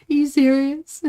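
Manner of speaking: high, loud mimicry of an alarmed mum; imitated freaking out. Mum freaking out about the scam to her child, imitated alarm. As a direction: play mum's disbelief, pitched well up. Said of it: "she was freaking out".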